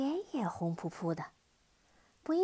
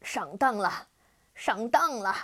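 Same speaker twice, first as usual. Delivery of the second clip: angry yell; 6 dB louder than usual. Acted. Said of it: "愤怒地跺着脚大叫".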